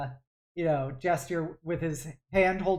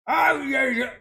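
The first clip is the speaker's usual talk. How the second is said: gruff soldier voice; 8 semitones higher, 5 dB louder than usual. Acted.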